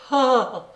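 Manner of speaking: sharp voiced cry of shock; startled high "ah"; high, loud gasp. A narrator's reading. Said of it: "elle fit". (exclamation aiguë de saisissement)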